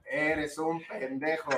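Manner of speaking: drawn-out scolding line; slow blunt quote. Retold or imitated. Quoting Yuki's blunt insult, slow and deadpan. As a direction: lay it out slowly, matter-of-fact insult. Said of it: "Yuki alguna vez a mí me dijo".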